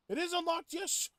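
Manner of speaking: sudden high, loud cheer of relief; excited shout. Real, not acted. Gamer cheering at an unlocked teleporter, excited shout.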